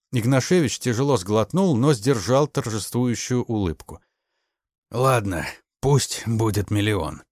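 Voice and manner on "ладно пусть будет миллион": slow, put-on reluctant agreement; feigned reluctance. A narrator's reading. Ignashevich faking reluctance to the major. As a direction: pretend to give in unwillingly. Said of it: "как бы неохотно согласился он".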